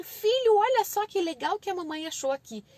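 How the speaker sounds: distracting mother's call; calling the child over. Shown as a demonstration. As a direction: lure a toddler with an exciting find. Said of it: "você pode chamar o seu filho".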